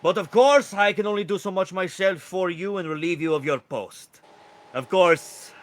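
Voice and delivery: high, loud, proclaiming rooster; royal rooster herald. Acted. Rooster relieving guard of his post, grand herald voice. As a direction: crow it out grandly as a courtier.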